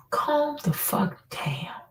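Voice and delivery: slow, exasperated whisper. Retold or imitated. To the fighting aunties in the shop, slow whispered scolding. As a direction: drag it out under the breath.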